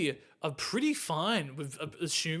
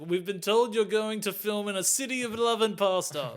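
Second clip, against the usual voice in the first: dialect coach; 4 semitones higher than usual. Acted. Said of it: "The dialect code's like".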